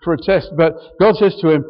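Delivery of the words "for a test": quick, prim, self-righteous retort. Retold or imitated. Preacher mimicking Isaiah refusing God, mildly self-righteous. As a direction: play Isaiah a little smug and fast. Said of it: "a bit, bit self-righteously".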